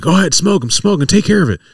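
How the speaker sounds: imitating medics egging each other on, high-pitched; high, eager retold urging; mock eagerness.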